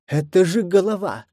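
high, reproachful whine; reproachful squeal. Acted. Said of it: "голосом, исполненным упрёка".

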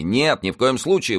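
high, emphatic refusal; firm objection. A narrator's reading. Officer forbids the commander to shoot, emphatic objection. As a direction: object at once with lifted pitch. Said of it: "возразил Д'Артаньян".

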